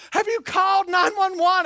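high, loud urgent mom shout; urgent mother. Retold or imitated. Mother on the phone, urgent shout. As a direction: demand it like a panicked mother. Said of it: "Mom goes".

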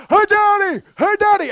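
put-on high, loud child calling out for daddy; kid yelling. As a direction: call out like an excited little kid. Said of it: "kid is yelling".

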